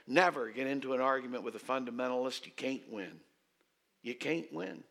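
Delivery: put-on lightly Southern-accented professor. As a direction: give the advice with a Southern twang. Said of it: "who had a Southern accent".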